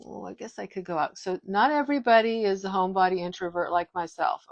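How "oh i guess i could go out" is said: mock casual. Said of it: "kinda go".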